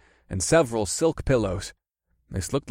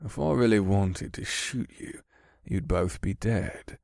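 foppish man voice; 4 dB quieter than usual. Acted. Scourge's voice.

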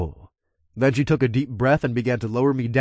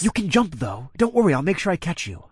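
coaxing; 6 semitones higher than usual. Acted. Coaxing her to jump.

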